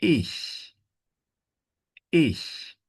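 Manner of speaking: ICH said alone, high and crisp; pronunciation drill. Shown as a demonstration. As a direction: model ICH as a practice word. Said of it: "So we exercise this".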